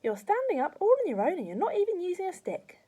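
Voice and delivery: put-on high, loud boyish amazement; excited cry. A narrator's reading. George marvelling at Grandma standing, excited cry. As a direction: exclaim it with rising delight. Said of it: "George cried".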